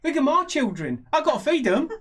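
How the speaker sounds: high-pitched pleading pie seller; halfling merchant. Acted. Halfling merchant feeding his children, high pleading pitch. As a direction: haggle plaintively in a little halfling voice. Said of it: "He says".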